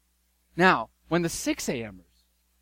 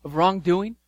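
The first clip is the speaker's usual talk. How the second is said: landowner's rebuke. Acted. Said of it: "he says".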